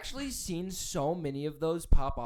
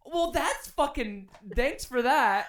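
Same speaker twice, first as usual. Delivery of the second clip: sarcastic; 5 semitones higher, slower than usual. Retold or imitated. Sarcastic quoted reply.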